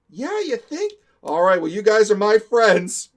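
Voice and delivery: loud, high-pitched, trusting dupe; gullible friend imitation. Adrian trusting his prankster friends, mock gullible voice. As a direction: play the friend talked into it.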